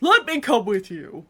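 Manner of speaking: overdramatic hero line, mocking; loud mock heroic cry; hammed-up knightly plea; flat Turalyon quote. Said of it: "There's no inflection in that man's voice".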